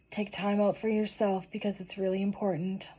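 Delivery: whispered, voice gone after crying; barely any voice left, just breath; voice giving out. Real, not acted. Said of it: "I'm losing my voice".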